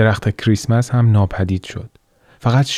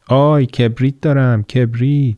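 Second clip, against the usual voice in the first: raised voice hawking matches to passersby; street vendor calling out; 4 semitones higher than usual. Acted. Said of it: "صدایش را بلندتر".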